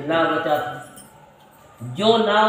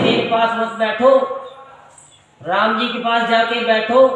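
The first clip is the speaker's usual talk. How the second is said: higher, louder Shiva voice telling them to go to Ram; Bhole Baba sending them off; 4 semitones higher, 5 dB louder than usual. Retold or imitated. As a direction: shoo them over to Ram ji. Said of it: "वो कहते हैं".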